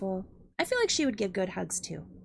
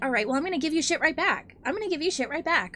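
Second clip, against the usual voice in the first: playful comeback; 4 semitones higher, faster than usual. Real, not acted.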